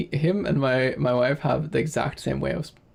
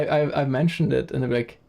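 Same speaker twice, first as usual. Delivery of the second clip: ordinary talk, nothing marked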